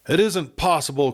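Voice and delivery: Kate cries out in shock; cried out. A narrator's reading. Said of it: "cried Kate".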